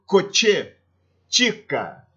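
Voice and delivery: "coche, tica" with a crisp tch sound. Shown as a demonstration. Teacher giving CH examples, tchê sound in "coche, tica". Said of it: "ele tem um som de tchê".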